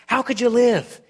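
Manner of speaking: a lightly voiced lizard pleading urgently; chattering lizard. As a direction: lizard pleading with the ghost to spare it. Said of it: "chattering to the ghost so loud".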